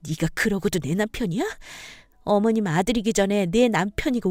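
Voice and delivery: acted wife venting pent-up anger; furious wife. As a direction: fire back indignantly at your husband.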